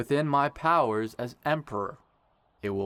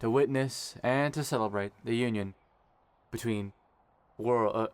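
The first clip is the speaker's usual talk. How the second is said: wedding officiant speech. Acted. Kai officiating the ceremony.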